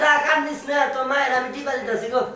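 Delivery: high, loud call over the crying; calling to baby. Acted. Man to his sister-in-law's crying baby, loud playful call. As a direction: loudly hush the baby from across the room.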